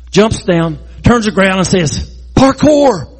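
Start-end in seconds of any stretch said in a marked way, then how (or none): 2.3-3.1 called out high and bright as a joke; playful exclamation. Pretend. Preacher joking David yells mid-jump, playful call. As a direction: shout it like a stunt move.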